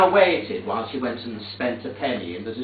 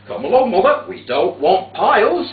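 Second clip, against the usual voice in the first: louder, impatient call to get up; loud urging; 4 semitones higher, 8 dB louder than usual. Retold or imitated. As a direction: chivvy Mother off the cold pavement. Urging mother up again.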